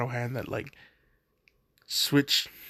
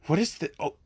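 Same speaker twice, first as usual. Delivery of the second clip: climbing into a high panicked squeal; panicked shriek; 13 semitones higher, faster than usual. Retold or imitated. Female Bakugo waking to find a dragon sniffing her. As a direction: panic rising until the voice cracks up high.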